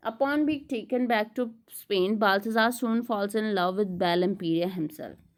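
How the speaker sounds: slow, measured read-aloud of study notes; deliberate lecture-room reading. Acted. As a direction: read the text out slowly and deliberately. Reads English summary aloud.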